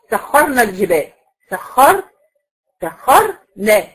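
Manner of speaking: slow سخرنا, stopping firmly on a heavy vowelless r. Shown as a demonstration. Teacher shows an original sukun, slowly dwelling on سخر. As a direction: isolate the r in سخر before adding نا. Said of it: "الراء هنا ساكنة".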